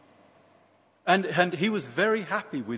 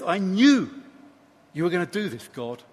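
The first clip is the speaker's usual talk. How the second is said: mildly indignant protest to God; lightly acted resentment; upset complaint. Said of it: "he's deeply upset".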